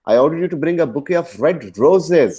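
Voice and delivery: "roses" hit hard, high then falling; stress on ROSES. Shown as a demonstration. Teacher shows which flower, stress on roses. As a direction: slowly build to a punched "roses". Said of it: "गुलाब चाहिए था".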